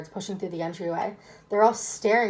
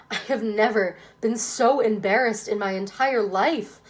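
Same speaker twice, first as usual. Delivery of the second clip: hissed through teeth; 3 dB louder than usual. Acted. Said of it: "he hisses through gritted teeth".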